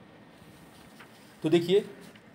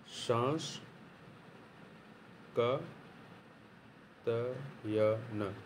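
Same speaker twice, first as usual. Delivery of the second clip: सांस ... का ... तयन stretched out with long pauses, soft; slow dictation; 5 semitones lower, 11 dB quieter, much slower than usual. Shown as a demonstration. Teacher writing the name on the board, dictating slowly. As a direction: drag each syllable of सांकृतायन while writing it. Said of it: "शास-, शास्कृतायन में".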